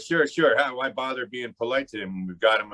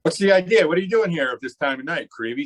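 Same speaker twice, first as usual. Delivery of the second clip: annoyed challenge; 5 semitones higher than usual. Acted. Gangster confronts unexpected night caller.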